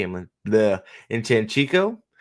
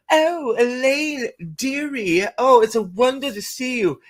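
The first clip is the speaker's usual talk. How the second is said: effusive greeting; 11 semitones higher than usual. Acted. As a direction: gush over her in a put-on high voice. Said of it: "Ravine's gonna walk up and be like".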